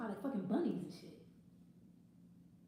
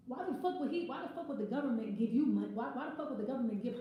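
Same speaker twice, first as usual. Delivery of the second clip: angry rant. Real, not acted. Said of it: "This is sounding kind of angry".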